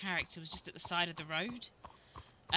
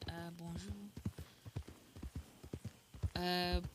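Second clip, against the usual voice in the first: tentative French greeting; 8 dB quieter, slower than usual. Acted. Testing Seraphine's French voice, a quiet first bonjour. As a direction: try the French accent, barely voiced. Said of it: "Can I still do Seraphine's voice?".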